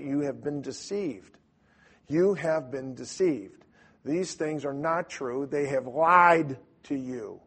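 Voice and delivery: slow, emphatic warning; blunt confrontation. Shown as a demonstration. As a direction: drive each phrase home slowly, like a two-by-four. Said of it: "almost like a two-by-four".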